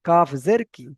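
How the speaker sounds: কাফ জের কি, no elongation at the end; short KI, no stretch. Shown as a demonstration. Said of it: "দেওয়া যাবে না".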